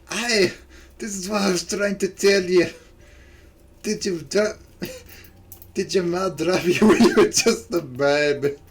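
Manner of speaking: exasperated Scottish customer; Scottish accent. Acted. Nessie trying to explain herself to the server, Scottish accent. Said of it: "I'll just do her lines one more time".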